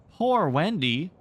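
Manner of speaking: put-on puzzled boy.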